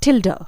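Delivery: टिल्डा repeated clearly, "til-da"; pronunciation demo. Shown as a demonstration. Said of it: "एक बार फिर से".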